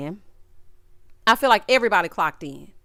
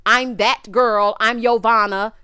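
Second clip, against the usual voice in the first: mock diva; 4 dB louder, slower than usual. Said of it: "you were giving Yovanna".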